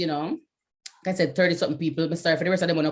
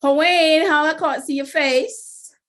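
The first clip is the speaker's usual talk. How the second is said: high, slow, laughing through a hello; laughing greeting; 9 semitones higher, 6 dB louder, slower than usual. Real, not acted. Host laughing at an attendee she cannot see. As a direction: giggle as you greet him.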